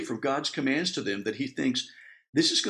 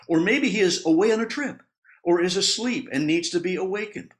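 higher, louder mocking taunt; dripping sarcasm; 6 semitones higher, 5 dB louder than usual. Elijah taunting Baal's prophets, dripping with sarcasm. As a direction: lay the scorn on thick. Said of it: "It's dripping with sarcasm".

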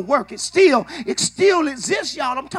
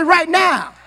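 louder call-back; 3 semitones higher, 3 dB louder than usual. Shown as a demonstration. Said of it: "Come on, say it like".

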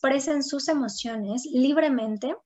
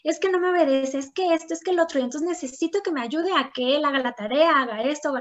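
complaining mother; 3 semitones higher than usual. Retold or imitated. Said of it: "así como decían hace rato".

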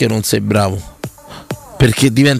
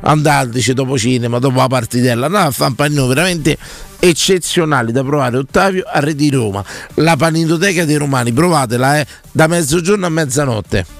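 ad read. Acted. Host reads live restaurant ad.

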